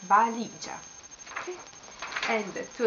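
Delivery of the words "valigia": Valigia with LI stressed; stress on middle syllable. Shown as a demonstration. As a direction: say Valigia as va-LI-gia. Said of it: "Here the accent".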